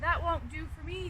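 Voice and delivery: the little fox says no, firmly but mildly; fox refusing. Acted. Fox turning down the bat's advice, mild firm refusal.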